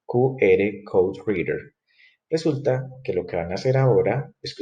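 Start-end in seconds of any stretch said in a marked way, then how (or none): 0.0-1.6 "Q R Code Reader" said slowly and deliberately; slow dictation of "Q R Code Reader" for the class; slow spelled-out name. Shown as a demonstration. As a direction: spell out "Q R Code Reader" so students can copy it. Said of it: "esta palabra que se llama".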